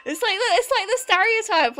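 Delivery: laughing while talking. Real, not acted. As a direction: keep laughing as you explain. Laughing through her own joke.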